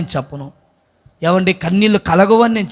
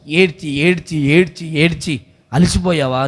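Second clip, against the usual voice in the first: gentle lowered voice, drawn out; tender appeal; 2 semitones lower, slower than usual. Real, not acted. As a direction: comfort someone worn out from weeping. Tender appeal to weary listeners.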